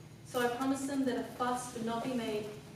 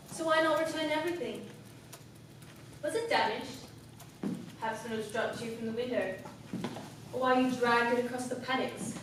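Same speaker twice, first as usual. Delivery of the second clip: mounting accusation; 3 dB louder than usual. Acted. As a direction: press the accusation harder until the last word bursts out. Acted accusation building to violent climax.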